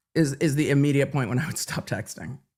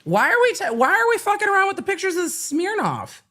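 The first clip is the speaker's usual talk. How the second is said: indignant outburst; 14 semitones higher than usual. Real, not acted. Indignant about whiskey pictures.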